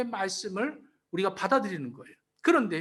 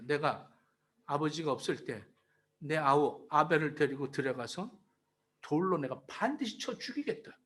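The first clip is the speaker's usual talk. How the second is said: Cain's resolve; 8 semitones lower, 6 dB quieter than usual. Retold or imitated. Cain plotting against his brother, low cold vow. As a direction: lower and softer, a cold murderous plan. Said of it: "아주 이렇게 작정을 했습니다".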